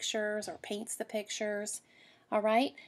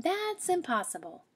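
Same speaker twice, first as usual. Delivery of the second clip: mother rabbit saying it cannot happen; firm mother; 9 semitones higher than usual. Acted. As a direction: end the discussion like a mom.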